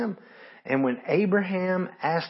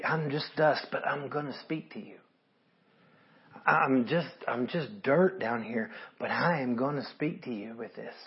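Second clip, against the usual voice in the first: humble; 4 dB quieter than usual. Retold or imitated. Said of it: "What humility to say".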